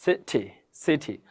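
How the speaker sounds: সিটি with a crisp aspirated T; correct pronunciation of সিটি. Shown as a demonstration. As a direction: say সিটি with a clear "th" puff, no D. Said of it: "এটা হচ্ছে সঠিক উচ্চারণ".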